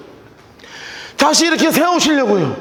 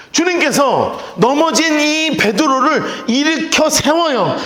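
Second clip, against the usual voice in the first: ordinary talk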